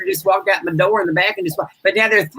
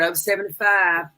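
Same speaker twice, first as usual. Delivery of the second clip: slow, quieter repeat of the last call; bingo call, softer; slower than usual. Acted. Bingo host repeating the final number softly. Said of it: "final number on the board".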